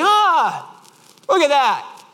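imitated friend's high, cheerful marveling; high, untroubled exclamation; Mark. Friend admiring the dented bumper, imitated cheerful wonder. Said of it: "And Mark's like".

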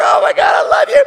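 high, loud gushing praise; hammed-up fervent love for God; mock gushing worship. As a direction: gush like an over-excited worshipper. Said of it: "you're like".

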